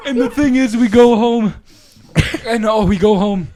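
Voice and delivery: high, loud, laugh-choked storytelling; real giggles lifting the voice high; still cracking up. Real, not acted. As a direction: push on with the story through laughter. Recovering from laughing fit.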